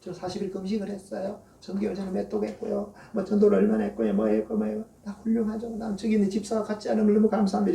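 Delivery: lightly voiced preening Pharisee listing his good deeds; boastful Pharisee. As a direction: show off to God like a proud child. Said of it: "이렇게 기도한 거라니까".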